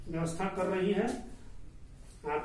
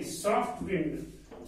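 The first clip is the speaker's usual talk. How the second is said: slow model phrase; much slower than usual. Shown as a demonstration. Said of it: "pronunciation होता है सॉफ्ट विंड".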